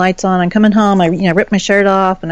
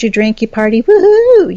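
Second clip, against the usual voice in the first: mock party cheer; 3 semitones higher, 5 dB louder than usual. Mocking her ex's partying with a loud cheer. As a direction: cheer it up like a sarcastic fan.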